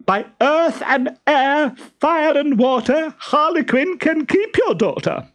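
shrieked. A narrator's reading. Stentorello renounces the daughter before fleeing home, shrieking. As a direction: shriek the oath high all the way through. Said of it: "shrieked Stentorello".

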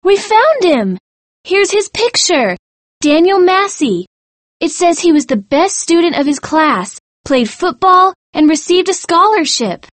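high, excited announcement of a find; excited cry. A narrator's reading. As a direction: cry it out to your friends, very high. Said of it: "she cried".

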